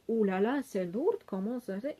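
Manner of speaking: acted-out reaction to a heavy load; mock exclamation. Woman complaining about the narrator's heavy suitcase, mock exclamation.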